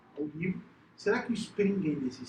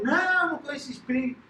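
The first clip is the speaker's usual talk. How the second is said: Italian waiter voice; 8 semitones higher, 5 dB louder than usual. Retold or imitated.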